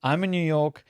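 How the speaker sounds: out of breath, airy and winded. Real, not acted. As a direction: speak winded, short of breath. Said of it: "I don't know why I'm out of breath".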